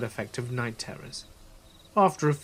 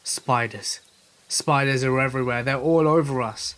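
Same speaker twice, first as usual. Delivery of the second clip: mock scream building in loudness; half-voiced panic, building to louder; retold panicked scream; 4 dB louder than usual. Friend waking narrator in the tent, mildly screaming. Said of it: "Todd was screaming".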